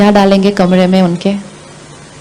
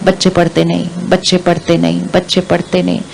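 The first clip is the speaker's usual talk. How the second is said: muttered mantra; 3 semitones lower, 6 dB quieter than usual. Retold or imitated. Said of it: "रोज उच्चारण होता है".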